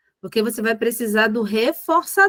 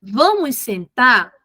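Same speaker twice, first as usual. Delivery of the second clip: gentle invitation; 3 dB louder, slower than usual. Shown as a demonstration. Teacher crouched facing the child, slow gentle invitation. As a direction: coax the child kindly, eye to eye. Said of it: "olha pra ele".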